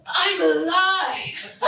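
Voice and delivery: laughing relief. Acted. Daughter's breakthrough moment.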